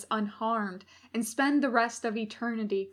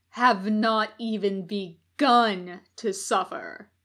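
slow, threatening growl; menacing demon; 4 dB louder than usual. Acted. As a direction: promise pain, slowly. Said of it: "he uttered".

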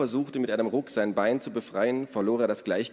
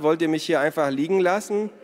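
raised, louder protest; indignant protest; 8 semitones higher, 6 dB louder than usual. A narrator's reading. Left lying by companions, indignant protest. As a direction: protest in a high, loud voice.

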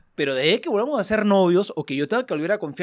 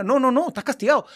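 scolding mother; 8 semitones higher, 6 dB louder than usual. Acted.

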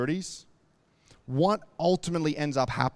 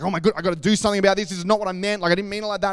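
fast, louder, flustered blurting; panicked rush; 3 semitones higher, 4 dB louder, much faster than usual. Retold or imitated. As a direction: Moses frantic that word got out. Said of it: "He panicked".

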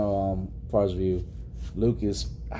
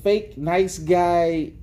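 sarcastic mockery; 5 semitones higher, much slower than usual. Mocking a fake nice guy.

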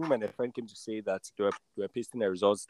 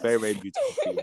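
laughing; much faster than usual. Real, not acted. Laughing while recalling joy.

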